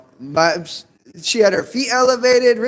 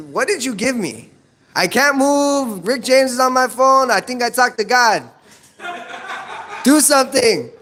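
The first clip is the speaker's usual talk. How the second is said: panicked uncle; 5 semitones higher than usual. Retold or imitated. Panicked high uncle on the phone.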